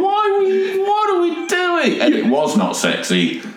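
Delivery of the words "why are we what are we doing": high bewildered squeak, retold; mock confused whine; baffled. Man recalls his puzzled question at the strip club. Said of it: "and I'm like".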